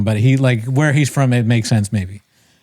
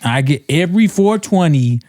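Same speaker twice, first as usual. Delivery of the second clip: put-on slurred blaccent, pitched up and drawn out; stoned comic impression; 4 semitones higher than usual. Mimicking a stoner comedian's weed bit, slurred high-pitched blaccent. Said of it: "he looks like he's high".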